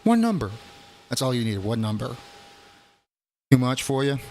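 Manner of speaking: jab at them like it's absurd; mock exasperation. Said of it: "I'm like".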